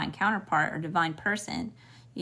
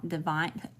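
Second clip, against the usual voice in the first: southern accent. Real, not acted. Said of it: "you hear my southern accent coming out real thick".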